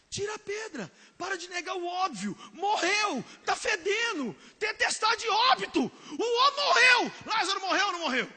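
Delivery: high, loud preaching cry; fervent shout. Real, not acted. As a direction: hammer it home with tearful force. Preacher urges facing death. (brado inflamado e choroso)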